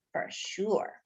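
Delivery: breathy whisper on "for sure"; whispered aside. A narrator's reading. Narrator admitting he is uncool, in a hushed whisper. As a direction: drop to a rueful whisper. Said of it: "I was an uncool bean".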